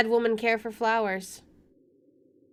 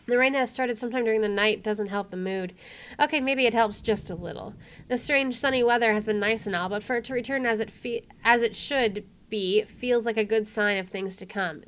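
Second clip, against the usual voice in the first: measured first-person narration; story narration; 4 dB louder than usual. Acted. Player reading the game's inner monologue, story narration. Reads game narration aloud.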